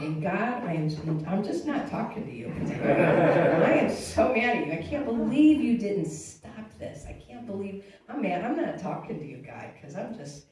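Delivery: reliving the rage, part chuckle; mock angry at God. Preacher replays telling God off, loud mock fury. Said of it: "I just got mad at God".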